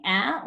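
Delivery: "ah" said open and short, like the a in apple; short a sound. Shown as a demonstration. Teacher showing the class the short A, a clear "ah". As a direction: give the pure short "ah" of apple. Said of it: "Is the A saying".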